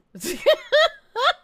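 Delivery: sudden squealing laugh; real high-pitched laugh; loud high laugh. Real, not acted. Streamer bursts out laughing.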